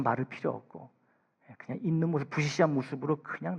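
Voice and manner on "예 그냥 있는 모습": normal talking voice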